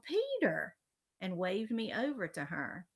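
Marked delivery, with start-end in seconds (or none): 0.0-0.8 high, raised call of a name. A narrator's reading. Joanne spots Peter in the line, calling out. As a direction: call across to get someone's attention. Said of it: "because she called".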